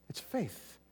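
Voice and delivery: hushed whisper of faith. Real, not acted. Preacher whispering to the congregation. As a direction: breathe the word faith softly.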